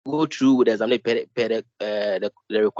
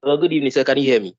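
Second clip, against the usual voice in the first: louder, projecting clearly; speaking up; 3 semitones higher, 5 dB louder, faster than usual. Real, not acted. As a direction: raise the voice to be heard. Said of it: "Your voice is very low".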